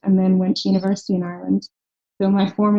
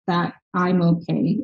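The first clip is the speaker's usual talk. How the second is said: slower echo; slower than usual. Real, not acted. Founder stressing mentor cared, slow sincere echo. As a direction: repeat it slowly, sincerely. Repeats for emphasis.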